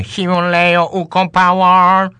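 slow, booming product-name announcement; ad slogan voice. Pretend. Mock ad slogan, drawn out.

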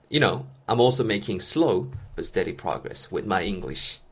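very slow, deliberate English read for learners; slow model sentence. Shown as a demonstration. Teacher reading his own example to students, very slow. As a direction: stretch every word out like a model reading. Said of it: "그래서".

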